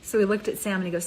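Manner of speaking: ordinary talk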